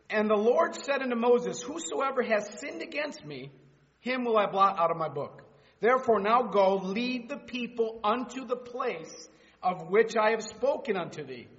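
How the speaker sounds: proclaiming scripture out loud; scripture reading. Acted. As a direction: read God's words with authority.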